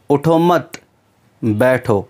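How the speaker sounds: उठो मत as one unit, then बैठो after a gap; pause after मत. Shown as a demonstration. Teacher repeating the wrong stop, pausing after उठो मत. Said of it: "पर नहीं आप रुकेंगे".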